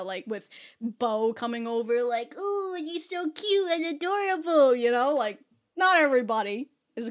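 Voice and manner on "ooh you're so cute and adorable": gushing Bow. Retold or imitated. Bow gushing over Milog.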